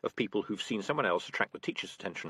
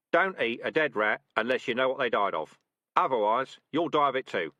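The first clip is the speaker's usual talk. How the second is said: louder, confident commands; brisk rat sergeant; 2 semitones higher, 6 dB louder than usual. Acted. Sergeant rat ordering trainees to drag the trap, brisk. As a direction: give orders to the squad briskly. Dark Tan advising.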